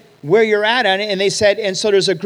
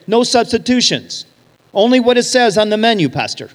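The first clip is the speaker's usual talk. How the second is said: louder, curt waitress refusing substitutions; 4 semitones higher, 5 dB louder than usual. Retold or imitated. Filipino waitress refusing the pastor, curt and loud. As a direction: bark it back like a brusque server. Gruff waitress cutting him off.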